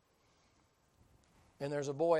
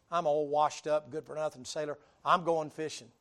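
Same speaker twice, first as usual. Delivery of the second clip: loud despairing Peter; 7 dB louder than usual. Acted. Peter's despairing speech to apostles.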